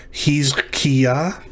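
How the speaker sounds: He's Kia with a rising, unsure tune; trying out the syllables He's Kia; first guess at the name. Shown as a demonstration. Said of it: "Think of that chet at the beginning like an H".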